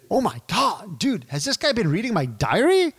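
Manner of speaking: high, excited amazed client voice. Retold or imitated. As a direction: squeal it like a stunned prospect. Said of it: "And they're gonna say".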